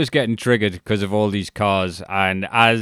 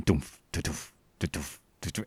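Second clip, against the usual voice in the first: low, soft repeated wiper thuds; imitated wiper thud; 4 semitones lower, 12 dB quieter, slower than usual. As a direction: mimic the windscreen wiper beating. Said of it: "wiper started going".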